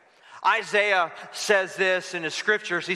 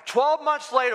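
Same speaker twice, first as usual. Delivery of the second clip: dramatic build; 8 semitones higher than usual. Shown as a demonstration. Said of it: "push the fast forward button".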